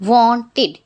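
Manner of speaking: wanted in two clear beats, "won-tid". Shown as a demonstration. Teacher showing past-tense ED sounds, wanted said "won-tid". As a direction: end wanted on a full "id". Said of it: "Examples of I D".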